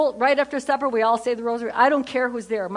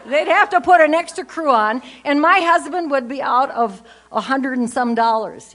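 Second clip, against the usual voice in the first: louder mock-alarm about the bill; excited exaggeration; 3 semitones higher, 6 dB louder than usual. Real, not acted. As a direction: sell the joke big. Joking about feeding thirteen kids.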